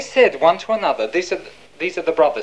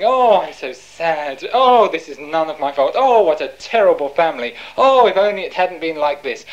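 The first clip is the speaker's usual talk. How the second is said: hammed-up self-pitying wail; exaggerated poor-me lament; mock moaning; 3 dB louder than usual. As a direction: moan it out, leaning hard on each "oh". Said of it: "Moaning, wailing".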